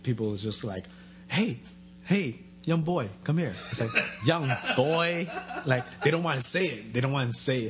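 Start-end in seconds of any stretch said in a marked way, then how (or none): 1.3-3.5 mock street hail; calling out. Stranger beckoning the young Asian kid, calling out. 4.3-5.3 amused, slightly raised echo; incredulous echo. Retold or imitated. Comic repeating what strangers called him, incredulous echo. He echoes their odd phrase.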